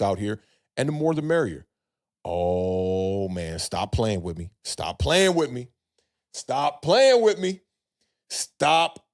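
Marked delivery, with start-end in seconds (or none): 2.2-4.5 low, slow, drawn-out reaction; stunned disbelief. Real, not acted. Host reacting to uniform news, low disbelief. 4.6-5.7 higher, slow and drawn out; rising disbelief. Real, not acted. Host hearing uniforms may be back, building disbelief. 6.3-9.0 high, loud, very drawn out; excited disbelief. Real, not acted. Host overjoyed at uniform news, high excited disbelief.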